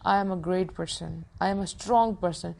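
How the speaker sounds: I am a great person, spoken very slowly; each word set down deliberately, like a mirror affirmation; slow, firm self-affirmation. Shown as a demonstration. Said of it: "شیشے میں کھڑے ہو کے کیا کہیں گے؟".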